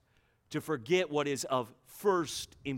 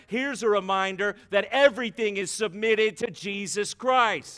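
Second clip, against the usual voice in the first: forceful preaching; 5 dB louder than usual. Real, not acted. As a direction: preach it with rising urgency.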